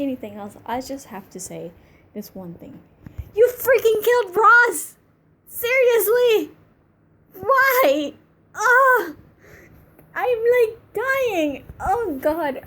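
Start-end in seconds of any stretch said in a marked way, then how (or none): 3.4-12.6 high, loud wail of outrage; exasperated fan outcry; upset outburst. Real, not acted. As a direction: drag out the protest in high, loud disbelief.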